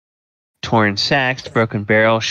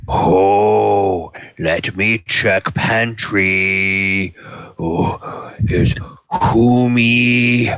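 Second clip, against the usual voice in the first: big slow ogre voice; Lubash booming voice. Acted. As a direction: boom it out like a hungry ogre. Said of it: "is a booming voice".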